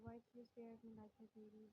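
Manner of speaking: drowsy, soft and quick; sleepy voice. A narrator's reading. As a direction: ask it half asleep. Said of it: "a singer's sleepy voice".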